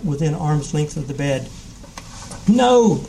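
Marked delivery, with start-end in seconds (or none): 2.5-3.0 sharp high yell of refusal. A narrator's reading. Frightened boy yelling at the ghost, loud and high. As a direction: shout it to push him off. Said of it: "Jim yelled".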